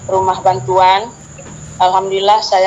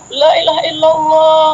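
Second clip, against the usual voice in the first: screamed takbir; 8 semitones higher than usual. Retold or imitated. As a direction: scream it out to the sky in terror and faith. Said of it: "saya menjerit".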